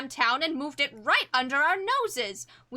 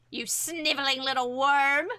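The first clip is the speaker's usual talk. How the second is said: angry shout. Acted. Character insults rival in scene.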